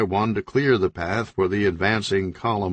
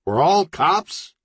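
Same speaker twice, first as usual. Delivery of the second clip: disbelieving; 9 semitones higher, 3 dB louder, slower than usual. A narrator's reading. Leader realises all are cops.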